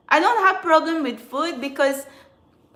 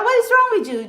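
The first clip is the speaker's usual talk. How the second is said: much higher, louder angry cry; exasperated outburst; 11 semitones higher, 5 dB louder, faster than usual. Real, not acted. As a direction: throw the question at them in outrage. Ranting at stalkers.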